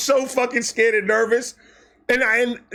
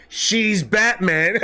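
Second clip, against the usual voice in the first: laughing awe; much slower than usual. Real, not acted. Awed punchline, laughing.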